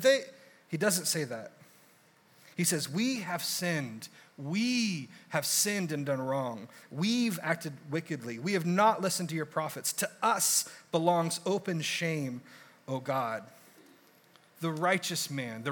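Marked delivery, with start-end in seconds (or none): 2.9-13.4 slow, hushed confession before God; humble prayer. Retold or imitated. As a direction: pray it slowly and humbly, owning the guilt. Daniel's confession prayer quoted.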